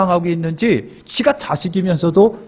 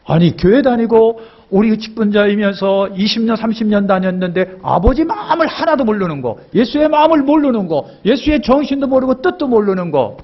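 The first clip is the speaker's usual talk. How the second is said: 높은 음으로 치솟는 열띤 설교; 회중을 꾸짖듯 목소리를 한껏 높여; fervent preaching; 6 semitones higher than usual. Real, not acted. Preacher rebukes the congregation. (열정적으로 외치는 설교)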